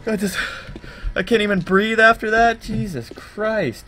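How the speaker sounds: high and loud, frantic and breathless; panicking at a scary sound, can't cope; real panic. Real, not acted. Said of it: "I'm fucking shaking right now".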